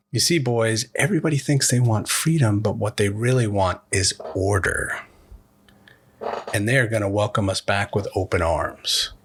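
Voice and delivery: lightly voiced creepy officer, mostly own voice; mild creepy officer. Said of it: "Hess says in a very creepy way".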